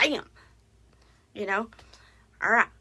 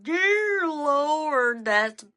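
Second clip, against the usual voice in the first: shocked; 5 semitones higher, 5 dB louder, much slower than usual. Retold or imitated. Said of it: "I'm like".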